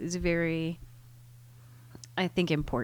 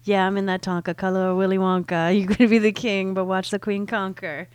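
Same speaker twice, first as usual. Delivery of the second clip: mock white girl reading rap; hammed-up valley girl rap read; 6 dB louder than usual. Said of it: "in my white girl voice".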